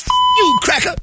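high mock kid swearing; cheeky kid insult. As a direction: spit it like a bratty little kid. Kid's rude reply voiced.

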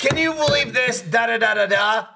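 high, loud mocking chatter; mock Jeff. Imitating Jeff's rant, high and loud. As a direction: rattle it off high and shouty. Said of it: "He's just like".

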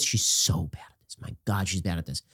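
low, unvoiced exasperated aside under the breath; muttered aside. Real, not acted. Commentator muttering to himself about Harris, exasperated. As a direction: drop to a half-whisper of disbelief.

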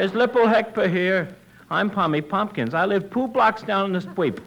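every T turned into a P: "Lipple" for Little. Acted. Tommy introducing himself to Costello, T as P. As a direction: swap each T sound for a P sound. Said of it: "He can't say the letter T".

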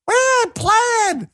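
high mock-tough imitation; mocking a politician. Host mocking a politician's slogan, high put-on voice. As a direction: throw the line back, high and put-on. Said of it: "You're not playing".

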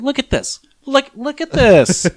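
put-on high, indignant grumpy old man. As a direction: rant at the TV like a cranky old man. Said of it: "that's your old man voice?".

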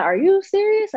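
high, incredulous retold question; mock disbelief. Mom hearing her son's college news, astonished. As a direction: play mom's astonished reply. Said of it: "And she was like".

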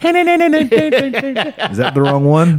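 slow, high, laughing question. Real, not acted. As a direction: laugh through the words. Laughing at own bad accent.

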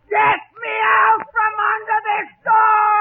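slow, distressed shout; trapped cry for help. Acted. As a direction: yell from under the door. Trapped under fallen door.

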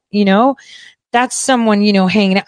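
ordinary talk, nothing marked

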